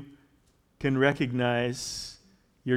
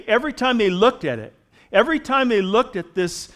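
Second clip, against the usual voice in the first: raised, projected scripture reading and exhortation; emphatic preaching; 4 semitones higher, 5 dB louder than usual. Real, not acted. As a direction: proclaim it to the congregation with punched key words. Reads and expounds scripture at force.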